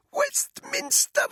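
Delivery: high, slow gasped word. Acted. Choking captive revealing the target, gasping high and slow. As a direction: force it out on a gasp. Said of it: "she gasped".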